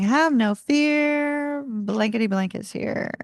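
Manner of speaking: slow announcer-style cartoon hero line; lightly voiced old cartoon narrator; vintage cartoon voice. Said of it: "a Saturday morning cartoon voice".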